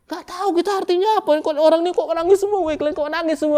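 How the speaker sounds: fast, high and loud whine; baffled mock lament. Preacher voices a puzzled worshipper asking why everyone cries. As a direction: rattle it off in confusion. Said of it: "Kan gitu".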